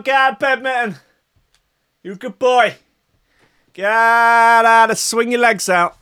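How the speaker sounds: put-on very high sing-song coaxing, like waking a toddler; mock wake-up call. To sleepy Minton, coaxing him up in a high baby voice. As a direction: coo him out of bed in a high babying voice.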